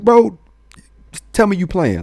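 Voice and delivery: pleading to hear it's a joke; incredulous friend. Retold or imitated. Friends react to his cop plan.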